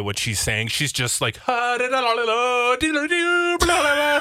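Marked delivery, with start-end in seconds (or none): 1.4-4.2 higher gibberish chant, lightly imitated; mock speaking in tongues. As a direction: babble in fake tongues, half-hearted. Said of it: "she's speaking in tongues".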